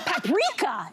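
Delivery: "paprika" said slowly, co-host's corrected way; co-host's pronunciation. Retold or imitated. Host quoting her co-host's correction, drawn-out pronunciation of "paprika". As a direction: draw out "paprika" as the claimed correction. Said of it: "she claims".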